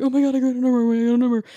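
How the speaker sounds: high, giddy bragging; mock thrilled outburst; imitating excited celebration. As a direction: blurt it like you're jumping up and down. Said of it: "he was so excited".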